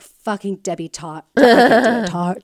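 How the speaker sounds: lightly put-on British accent, dropped R. Podcaster trying the stalker's nickname out, mock British accent. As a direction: try the nickname with a British twang. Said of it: "say that in a British accent".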